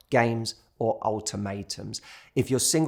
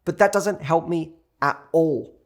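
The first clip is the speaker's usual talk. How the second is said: higher and louder, biting sarcasm; sarcastic frustration; 4 semitones higher, 4 dB louder than usual. Pretend. Overwhelmed diner silently fuming at the unhelpful waiter, sarcastic. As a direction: let the fake cheer sour into complaint. Customer's frustrated inner reply.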